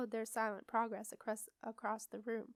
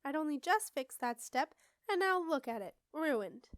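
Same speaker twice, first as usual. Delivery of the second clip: raised, loud complaint; angry yell; 4 semitones higher, 5 dB louder than usual. A narrator's reading. Witch complains about the broken step, yelling. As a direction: berate them in high exasperation. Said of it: "yelled a voice".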